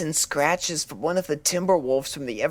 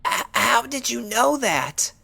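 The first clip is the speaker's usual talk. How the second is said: higher, stammering in alarm; startled stammer; 6 semitones higher, 3 dB louder than usual. Acted. Fluttershy to the doctor, stammering in startled fear. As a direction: caught off guard and scared. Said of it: "Fluttershy flinched".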